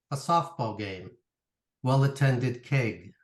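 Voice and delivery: measured poetry reading with pauses after phrases; poem reading. Acted. Poet reads family reunion poem to the audience, measured recital. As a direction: read it line by line, letting each image stand.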